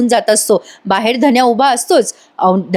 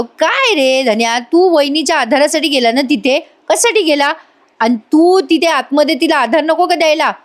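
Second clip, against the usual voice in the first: mock scolding; 5 semitones higher than usual. Raja scolds Dhanya jokingly.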